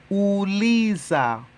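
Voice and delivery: Uliza said slowly and clearly, u-LI-za; slow Swahili model word. Shown as a demonstration. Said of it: "Uliza means ask".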